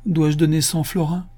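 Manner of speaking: high-pitched plaintive protest; whining. A narrator's reading. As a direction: whimper it as a complaint. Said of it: "pleurnicha Absalom". (ton pleurnichard, plaintif)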